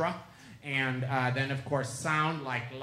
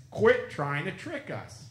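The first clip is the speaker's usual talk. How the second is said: slow, deliberate, a touch louder; mysterious voice; 4 semitones higher, 6 dB louder, slower than usual. Retold or imitated. An unseen voice warns the woman on her walk, slow and deliberate. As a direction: spell it out slowly like an unseen watcher.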